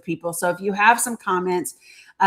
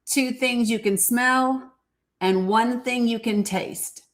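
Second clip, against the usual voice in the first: calm grounding exercise; 3 semitones higher than usual. Shown as a demonstration. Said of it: "there's an exercise and I need to remind you".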